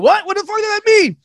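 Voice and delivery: high, baffled imitating squeal; mock confusion. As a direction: play someone stunned by a red letter.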